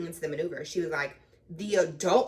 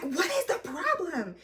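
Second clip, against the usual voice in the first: high, slow mocking impression; mock trainer; 10 semitones higher, slower than usual. Trainer snapping at driver, slow mock snippiness. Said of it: "And she's like".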